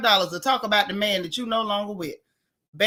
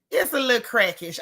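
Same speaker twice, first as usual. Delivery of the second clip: laughing it out. Real, not acted. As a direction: repeat through laughter. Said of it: "I, that, yeah".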